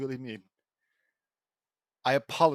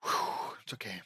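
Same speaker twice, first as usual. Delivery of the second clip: calming down; 8 semitones lower, 4 dB quieter than usual. Real, not acted. Calming self down.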